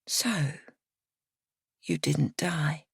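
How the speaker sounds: slow, soft, cold drawl; Miriana's slow cold drawl. A narrator's reading. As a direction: draw it out coldly. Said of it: "in a slow drawl".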